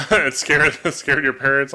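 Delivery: laughing. Real, not acted. Amused by a viewer's parents being scared.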